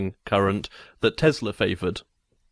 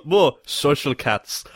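imitated Greek accent, slow, "cats" for cuts; slower than usual. Imitating Greeks in radio interviews, Greek accent. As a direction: do a jokey Greek accent, drawn out. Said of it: "Greeks pronounce cuts as cats".

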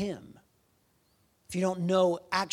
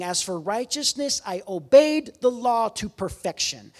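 proud boast; 3 semitones higher, 4 dB louder than usual. Retold or imitated. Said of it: "So that's what Paul is admitting".

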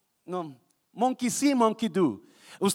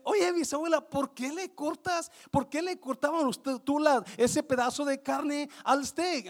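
higher-pitched questioning girl, lightly acted; great-granddaughter; 6 semitones higher than usual. Girl asking her great-grandmother about the steak, lightly voiced great-granddaughter. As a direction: ask the elder in a raised pitch, drawing it out. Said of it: "va con la bisabuela y dice".

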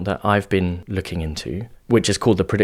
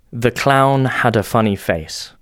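slow, clear spoken sentence; slow clear reading; 2 semitones higher, slower than usual. Shown as a demonstration. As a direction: say it slowly and plainly. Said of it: "what the clip is actually saying is".

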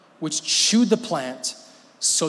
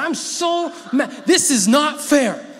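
high, loud pouting whine; imitating a sulky girl; 9 semitones higher, 5 dB louder, slower than usual. Preacher imitating his girls complaining, loud pouting whine. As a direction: whine it like a daughter who lost the argument. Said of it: "this is like what our girls say sometimes".

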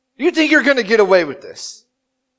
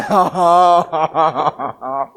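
put-on toddler's wail; 6 semitones lower than usual. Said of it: "they just bother going".

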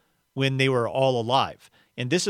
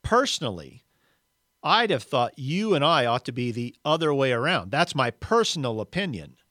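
self-righteous ghost. Acted. Big Ghost asserts himself.

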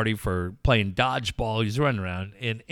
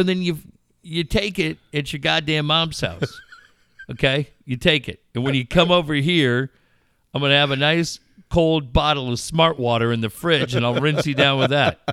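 mock dad rant; 3 semitones higher, 4 dB louder than usual. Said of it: "I go".

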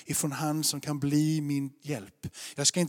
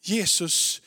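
steady, earnest sermon delivery; measured preacher's teaching voice; preaching. Acted. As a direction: lay out the message to the congregation. Preaching to the congregation.

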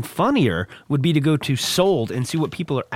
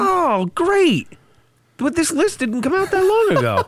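laughing; 4 dB louder than usual. Real, not acted. Laughing at the old list.

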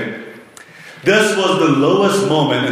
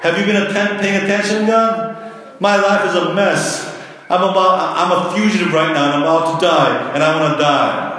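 whiny complaint to God; 3 semitones higher than usual. Retold or imitated. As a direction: whine at God like a fed-up prophet. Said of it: "In other words".

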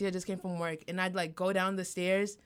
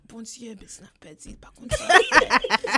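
higher, slowed, louder mock prayer in French; mom praying; 4 semitones higher, 10 dB louder than usual. Imitating mom leading a family prayer, hammed-up and higher. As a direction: ham up mom's family prayer. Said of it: "my mom was calling family prayers like".

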